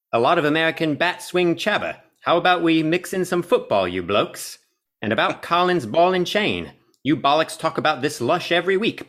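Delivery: put-on amateur British accent, read from a review; self-admittedly bad British accent. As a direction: have a go at cheeky British lads' slang in a shaky British accent. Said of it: "I have to read it in a British accent".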